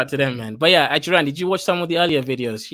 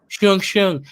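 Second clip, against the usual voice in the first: mocking nose-talk noises, higher; mock nasal speech; 5 semitones higher than usual. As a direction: mimic talking through the nose, pitched up. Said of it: "You're speaking with your nose".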